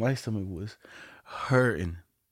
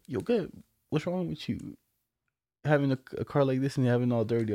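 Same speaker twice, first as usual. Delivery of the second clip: mock scolding friend; 3 semitones higher than usual. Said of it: "You were like".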